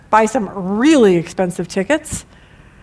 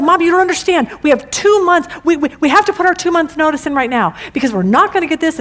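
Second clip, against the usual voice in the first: retold freak-out; 5 semitones higher, faster than usual. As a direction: replay the daughter's meltdown, a bit hammed-up. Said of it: "she was freaking out".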